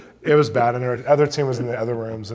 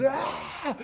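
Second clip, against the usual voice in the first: imitated scream; 14 semitones higher, 4 dB quieter than usual. Witch doctor falling back when rebuked, high mock scream. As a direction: cry out as if falling backwards. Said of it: "falls backwards and screams".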